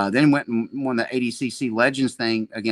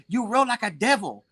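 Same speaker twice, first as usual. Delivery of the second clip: Seneca impression; 8 semitones higher than usual. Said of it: "I got a good Seneca impression".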